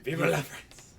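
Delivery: high loud rallying cry. Pretend. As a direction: shout Vive la France high and loud. Echoing the toast louder.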